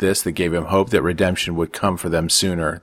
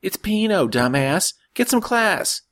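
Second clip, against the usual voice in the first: higher, mocking sister's voice; teasing sister; slower than usual. A narrator's reading. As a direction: rib him with a laugh. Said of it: "Francesca said, laughing".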